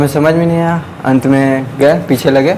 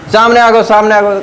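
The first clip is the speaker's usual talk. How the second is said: crowd shouting; 5 semitones higher than usual. Retold or imitated. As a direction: call out samne a go like a bus crowd.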